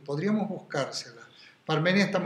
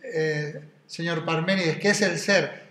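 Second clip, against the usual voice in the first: imitating Iñaki's question; 5 dB louder than usual. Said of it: "si le preguntaran lo que pregunta Iñaki".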